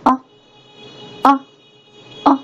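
"哦" as a short, punchy "uh", repeated with gaps; each "哦" cut short like a small jab; short, forceful vowel. Shown as a demonstration. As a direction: drill "哦" as a quick, firm "uh". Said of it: "所以你要发着短促有力".

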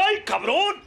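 high, swooping yelps, dropping at the end; hammed-up amazement, drawn out; astonished Lazarus. Lazarus hearing his sponsor call, mock astonishment.

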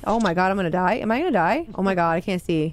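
deep pitch shifted. Pretend. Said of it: "Sound like your voice changer".

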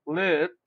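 "lived" alone as one short syllable; correct pronunciation of lived. Shown as a demonstration. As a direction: say "lived" in a single beat. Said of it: "digo lived".

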